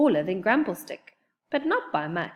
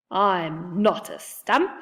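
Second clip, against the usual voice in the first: gruff voice; 4 dB louder, slower than usual. Acted. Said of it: "said the gruff voice".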